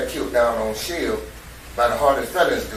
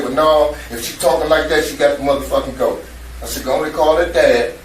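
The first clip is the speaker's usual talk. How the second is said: raised, decisive voice, a bit louder; louder, firm; 6 dB louder than usual. Retold or imitated. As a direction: lay down the decision firmly. Father decides to send daughter home.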